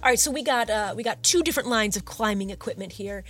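chatty, upbeat salesman voice; eager shopkeeper. Acted. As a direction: pitch the goods like a friendly bro.

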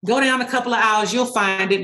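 lightly acted nonchalant store employee; mildly offhand, unbothered worker. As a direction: toss off directions as if it hardly matters. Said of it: "playing the nonchalant employee".

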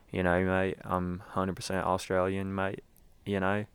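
lightly put-on Australian accent. Shown as a demonstration. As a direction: try a hint of Aussie. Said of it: "that is my Australian accent".

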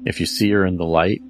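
slow, eerie campfire storytelling; spooky story narration. Acted. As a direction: draw the listener into a ghost tale. Spooky story read over music.

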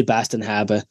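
light mock Boston accent. Explaining the joke to the group, light Boston accent. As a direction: put a touch of Boston on it. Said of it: "say this one in Matt's accent".

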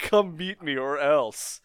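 slow, lightly acted villain threat; evil guy voice. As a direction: say it slowly, like a cartoon bad guy. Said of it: "got his evil guy voice down".

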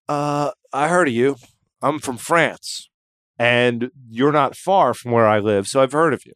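lightly voiced French fan, French accent; mock French accent.

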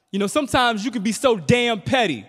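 high, loud yell at mom; teen yelling. Retold or imitated. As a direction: yell it down the hall at your mother. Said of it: "I yell out".

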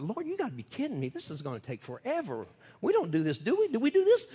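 incredulous rise to a high squeak on the question; mock disbelief. Preacher retelling his doubt to God, mock disbelief. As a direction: act out doubting the Lord.

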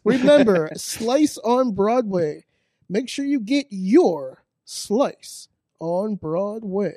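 slow, deliberate ad tagline; ad read. Acted. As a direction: sell the slogan slowly. Ad sign-off.

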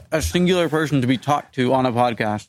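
talking with a mouth full of cookies. Real, not acted. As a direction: speak through a mouthful of food. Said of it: "I'm talking with my mouth full of peanut cookies".

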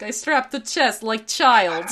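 slow mock-Russian, amused; fake Russian accent. Repeating the baby carrier joke, in a fake Russian accent. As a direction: put on a silly Russian accent. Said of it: "one of those Russian accents".

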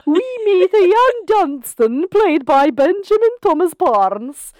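high, excited recap announcer; TV recap narrator. Pretend. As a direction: hype it up like a recap.

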